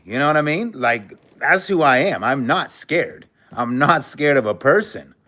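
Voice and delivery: daring the haters to face him, voice up; heated call-out. Real, not acted.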